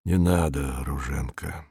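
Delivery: low, softly spoken plea; quiet. A narrator's reading. He gently stops her as she holds his shoulders, quiet. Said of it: "сказал он тихо".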